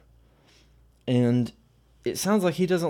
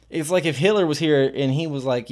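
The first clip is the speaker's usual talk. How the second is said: ordinary delivery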